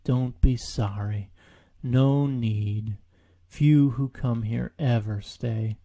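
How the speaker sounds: slow, sighing donkey voice; weary Eeyore. Acted. Eeyore hearing the sound approach, slow and weary. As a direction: droop through every line.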